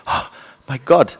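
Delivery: gasp, then exclaim in mock fright; shocked gasp. Visiting friend finds a lady in the wardrobe, shocked.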